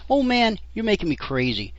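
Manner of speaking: exasperated. Retold or imitated. Apprentice exasperated with butcher.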